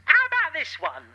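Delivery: David Tennant impression. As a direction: go big and breathless as Tennant. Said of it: "David Tennant".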